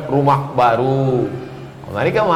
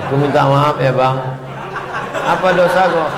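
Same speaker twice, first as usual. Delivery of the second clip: laughing apology. Retold or imitated. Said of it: "kalau saya minta maaf dengan suami".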